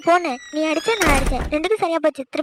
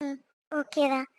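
slow, softer, drawn-out mocking echo of okay தான்; teasing mimic; 6 dB quieter, much slower than usual. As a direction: drag out okay தான் to tease him. Wife mimics husband's reply. (கேலியாக மெதுவாக இழுத்துச் சொல்வது)

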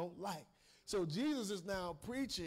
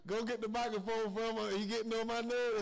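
mock angry demon voice; 2 semitones higher, 4 dB louder than usual. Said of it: "something in me that said".

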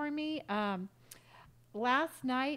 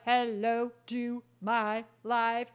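mock own greeting; slower than usual. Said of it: "I'm like".

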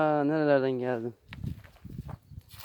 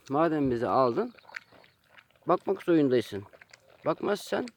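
voicing the pets; 4 semitones higher than usual. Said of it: "Siz de diyorsunuz ki".

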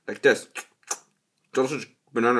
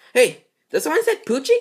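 much higher, fast eager voice; high character voice; 11 semitones higher, 5 dB louder, faster than usual. Acted. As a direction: pop in all eager. New character pops in.

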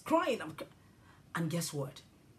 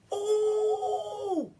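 high, loud startled "Oh!"; child crying out at a vision; 13 semitones higher, 5 dB louder than usual. Retold or imitated. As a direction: gasp it out in shock. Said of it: "somebody says".

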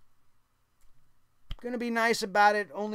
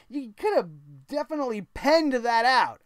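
ordinary talk, nothing marked

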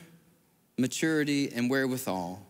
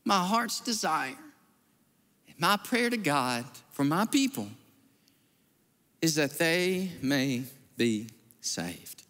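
tender recitation; slower than usual. Retold or imitated. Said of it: "it goes something like this".

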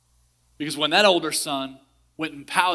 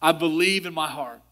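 prayer. Acted. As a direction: pray gently over the listeners. Leads a prayer.

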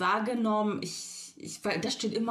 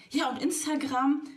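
imitating the man; 6 semitones higher than usual. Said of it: "und dann".

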